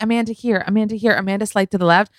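high, quick calls for attention; photographers calling out. Retold or imitated. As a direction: imitate red-carpet photographers shouting directions. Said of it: "Literally like that".

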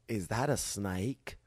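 slow Southern drawl that comes out a bit Australian; Southern accent. Retold or imitated. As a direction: imitate a Southern stranger with a near-Australian twang. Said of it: "Why are they Australian?".

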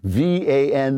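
letters spelled out one by one; over enunciating. Shown as a demonstration. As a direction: sound out each letter clearly. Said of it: "Sound it out".

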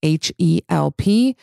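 smooth, measured sponsor read. Acted. Host pitching online therapy to podcast listeners, ad read. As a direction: read out the sponsor copy clearly and evenly.

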